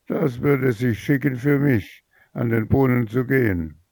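the spoiled daughter refuses to fetch water, sneering; haughty sarcasm. Acted. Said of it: "antwortete die Ältere".

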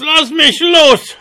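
very high, slow wailing dwarf plea. A narrator's reading. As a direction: drag the plea out in a squeal. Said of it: "heulte der Zwerg".

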